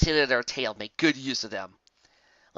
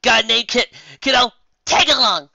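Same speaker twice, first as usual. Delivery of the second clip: loud, high cheerful call; upbeat invite; loud high happy invite; 10 semitones higher, 9 dB louder than usual. Acted. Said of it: "the Pegasus said happily".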